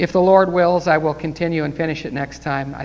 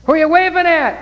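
puzzled shout; 12 semitones higher, 7 dB louder than usual. Pretend. Onlookers questioning people waving.

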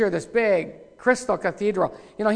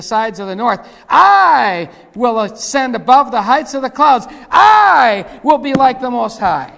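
Lucifer's boast; 8 dB louder than usual. Acted. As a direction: thunder out the proud boasts from the pulpit. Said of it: "For thou hast said in thine heart".

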